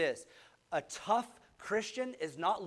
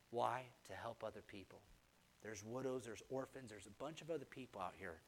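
soft, low and earnest; hushed sermon; 4 semitones lower, 5 dB quieter than usual. Acted. Pastor quietly urging church to show up, soft and low. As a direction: pull the room in close and quiet.

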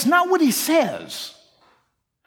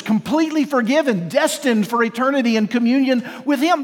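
firm, slightly raised declaration of identity; powerful declaration; 2 semitones higher than usual. Acted. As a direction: proclaim it with growing conviction. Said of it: "You see the power of that?".

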